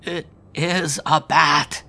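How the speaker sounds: high, slow, sobbing words; a terrified sob on each word; sobbing in fear. A narrator's reading. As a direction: Howard sobbing it out. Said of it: "sobbed Howard".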